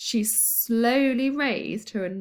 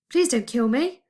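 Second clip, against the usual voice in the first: wailing; 3 semitones higher, 4 dB louder than usual. A narrator's reading. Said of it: "Grogba wailed".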